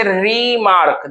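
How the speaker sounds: रिमार्क slowly in two parts; syllable by syllable. Shown as a demonstration. Teacher counting syllables, रिमार्क slowly split in two. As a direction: draw out रि, then मार्क. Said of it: "stress किस पे लग रहा".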